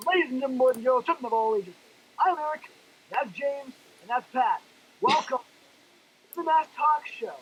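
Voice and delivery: showman announcing the show; grand entrance announcement. Pretend. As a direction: hype it like a ringmaster. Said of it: "what you gotta do it is".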